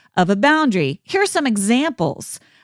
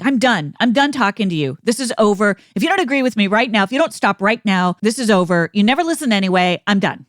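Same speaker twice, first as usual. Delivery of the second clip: mildly raised, hard-edged ultimatum; angry shutdown; faster than usual. Shown as a demonstration. Host acting out someone ending a fight: mock angry ultimatum.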